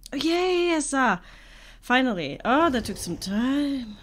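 high, loud cheer at last; relieved excitement. Real, not acted. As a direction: burst out, loud and high, after a long wait. Match found after a long wait.

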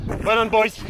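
shouted well done; cheering on finishing marchers; loud praise. Real, not acted. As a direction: call the praise out to them.

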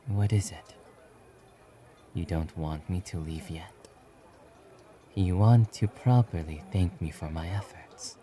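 understated, quiet reluctance; reserved hero declining. Acted. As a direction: question softly, then modestly refuse.

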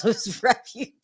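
words stretching into a laugh; breaking into laughter. Real, not acted. Host cracking up over a rapper's PR hire, breaking into laughter. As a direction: start to crack up on the last word. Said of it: "I don't know why I'm laughing".

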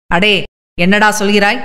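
usual speaking voice

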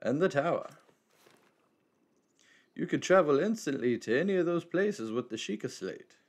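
lightly voiced wise old man; a hint of a cryptic elder.

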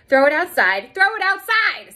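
high, loud frantic repeat; scared plea. Acted. Girl begging teacher to throw worm out, frantic. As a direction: squeal the order twice, terrified.

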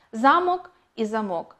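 "Замок" first with stress on the first syllable, then "замок" with stress on the last; contrasting stress. Shown as a demonstration. Teacher to class, showing the stress contrast in "Замок і замок". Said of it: "мають різний наголос".

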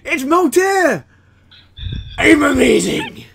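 high, loud triumphant cry; excited shout. Real, not acted. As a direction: cheer it out in triumph. Triumphant after translation works.

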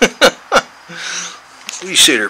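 high, slow cooing at the cat; slow pet talk. Real, not acted. Baby talk to his cat.

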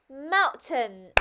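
"Mountain" said loud, first syllable punched; stress on first syllable. Shown as a demonstration. Teacher repeating for the class to copy, stressed "Mountain". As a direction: hit the start of "Mountain". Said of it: "Ở trên âm tiết là mount".

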